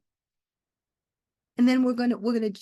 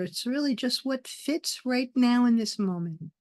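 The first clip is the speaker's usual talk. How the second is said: guided meditation. Acted. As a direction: lead them gently into the breath, unhurried.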